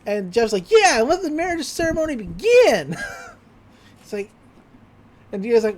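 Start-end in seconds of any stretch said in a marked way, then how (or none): 0.7-3.0 high, loud hammed-up announcement; big, raised, gleeful mock decree; mock proclamation. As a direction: proclaim it like a cartoon master of ceremonies. Acts character proclaiming a wedding.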